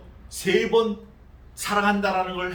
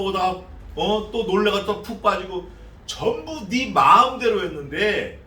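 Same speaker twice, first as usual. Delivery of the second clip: heavy rebuke. Retold or imitated. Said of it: "아주 무거운 말씀을 던져주셔요".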